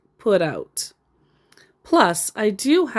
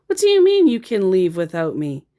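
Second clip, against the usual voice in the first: usual speaking voice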